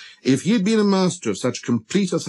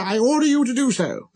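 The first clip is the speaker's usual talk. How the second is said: fumbling start, then high royal command; majestic king; 12 semitones higher than usual. Acted. King granting the prince leave to sit, high and regal. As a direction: hem briefly, then decree it grandly. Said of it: "majestically gathered in a fold".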